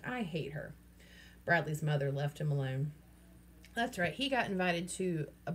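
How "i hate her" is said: snapped. Acted. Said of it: "he snapped".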